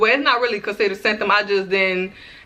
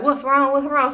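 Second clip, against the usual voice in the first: higher-pitched, insistent questions; retold boyfriend pressing for an answer, pitched up; imitated concerned boyfriend; 6 semitones higher than usual. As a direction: ask as a worried partner would. Boyfriend keeps asking why she cries.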